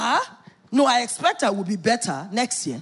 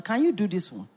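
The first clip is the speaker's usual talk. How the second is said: softer, low teasing murmur; wife murmuring notes to husband, softer and low; soft mock dictation; 6 semitones lower, 6 dB quieter than usual. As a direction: read it back gently while typing. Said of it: "That's how I'll be typing".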